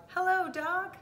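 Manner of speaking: high, cheery duck hello; Duck's greeting. A narrator's reading. Duck greeting Cow from his bike, high and chirpy. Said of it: "said Duck".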